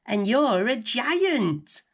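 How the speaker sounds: put-on high, slow, amazed girl's voice; gasping in surprise. A narrator's reading. Girl realises she is sitting on a giant's tongue, amazed. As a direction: breathe it out in wonder at his size. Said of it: "Rose gasped".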